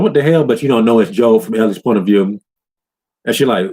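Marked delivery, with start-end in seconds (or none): 0.0-0.4 sudden high alarmed question; a player hearing the torture; startled cry. Retold or imitated. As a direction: jolt it up high in shock. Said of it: "You're like".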